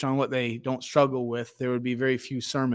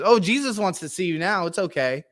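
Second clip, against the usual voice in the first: sudden sweetness; 4 semitones higher than usual. Retold or imitated. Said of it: "all of a sudden the tune changes".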